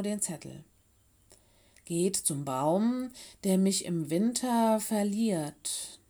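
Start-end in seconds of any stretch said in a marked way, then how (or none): 1.8-6.0 slow, deliberate reading aloud. A narrator's reading. Mino reading the riddle to the friends, slowly and carefully. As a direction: read out a written riddle slowly, word by word. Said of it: "las Mino vor".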